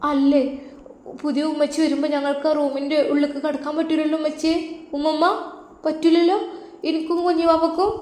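put-on high, soft childlike pleading; a small girl asking worriedly; little girl voice. Granddaughter asking grandma about the new room, soft childlike voice.

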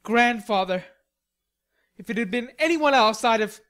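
loud, heated outburst; indignant. Acted. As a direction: fume about the insult, building in pitch. Indignant Laurie blames grandfather.

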